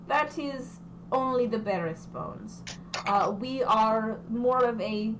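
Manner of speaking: lightly put-on foreign accent as the NPC; a thick accent, measured and persuasive; recruiter's accented pitch to the party; character accent. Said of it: "I'm saying regime's weird in this accent".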